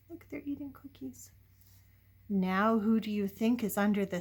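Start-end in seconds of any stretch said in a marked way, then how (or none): 0.1-1.3 quick whispered aside. Real, not acted. Reader pointing out the boys to the child, whispered. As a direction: share it as a secret. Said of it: "aside to the listener".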